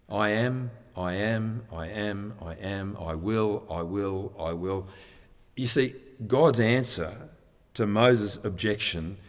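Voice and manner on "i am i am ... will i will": "I am" and "I will" as separate beats, fading softer; emphatic repetition. Shown as a demonstration. Preacher picks out God's key words, emphatic repetition that fades. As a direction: repeat each "I am" and "I will" evenly, letting the level sink. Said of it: "with particular emphasis".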